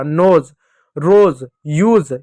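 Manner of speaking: नोज, रोज, यूज with a buzzing final z; slow model words नोज, रोज, यूज, each ending in "z"; S read as Z. Shown as a demonstration. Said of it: "एस को एस ना पढ़ते हुए ज पढ़ा".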